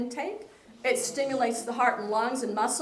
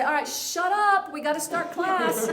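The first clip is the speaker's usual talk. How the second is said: mock shush; 5 semitones higher than usual. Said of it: "Sometimes I have to say".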